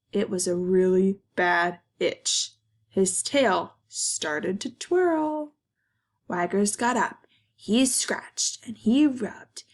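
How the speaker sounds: expressive storybook narration with pauses; reading to children. A narrator's reading. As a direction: tell it to kids, lifting and stretching key words. Reads picture book to children.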